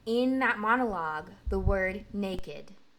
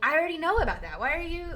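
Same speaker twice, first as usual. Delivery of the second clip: frustrated outburst; 9 semitones higher, 5 dB louder, much faster than usual. Retold or imitated. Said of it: "and I was like".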